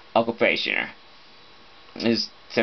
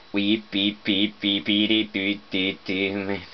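imitated beeping; 3 semitones lower, 3 dB quieter than usual. Real, not acted. Speaker filling the wait while it's loading, imitated beeping. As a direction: run of short, even beeps.

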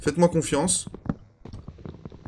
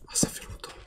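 whispering; 9 dB quieter than usual. Real, not acted. Quiet aside to himself.

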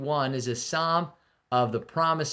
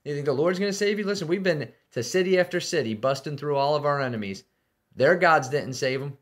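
boastful taunt; 3 semitones higher, faster than usual. Retold or imitated. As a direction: sneer at their God, swaggering. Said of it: "And then he says".

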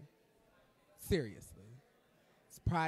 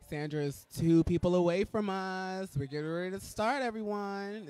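louder and faster, eager; excited buildup; 3 semitones higher, 7 dB louder than usual. Real, not acted. Host telling viewers the guest is near, eager and loud. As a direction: rush it with anticipation.

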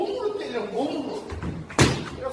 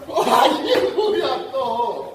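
exasperated surprise; 8 dB louder, much slower than usual. Real, not acted. Student complains of pain again.

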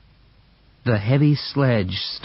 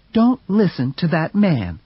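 Mercedes; 6 semitones higher than usual. Acted. Mercedes siding with brother.

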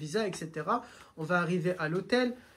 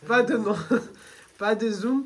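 laughing plea; 2 semitones higher, 9 dB louder than usual. Real, not acted. Laughing plea not to name.

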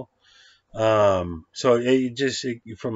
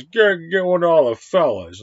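mock order; 7 semitones higher, 7 dB louder than usual. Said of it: "and he says".

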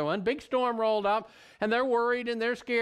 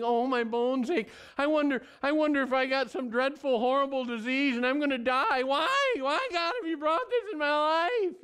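higher, hammed-up hypochondriac moaning; mock whining; 4 semitones higher than usual. David complains to God about aching bones, mock whining. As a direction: fret about a dreadful disease, mock whine.

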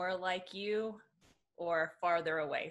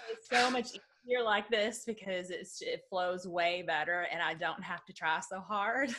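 light Southern American accent, a bit slower; 2 semitones higher than usual. Shown as a demonstration. Showing the guest her Southern accent on request, in a light Southern accent. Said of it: "what would it sound like".

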